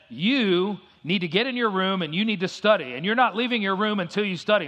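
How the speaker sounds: retold stern mother, pitched a little up; lightly acted firm order from a mom. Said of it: "She was very firm".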